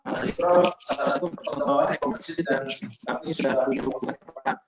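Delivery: glitchy cutting-out connection; choppy breaking-up audio. Real, not acted. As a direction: voice breaking up over a bad line. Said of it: "Suaranya putus-putus".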